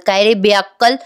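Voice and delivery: imitating an upset mother's reproach; angry scolding. Mother scolds son for mortgaging the house, mildly angry. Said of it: "चिडतात आणि म्हणतात".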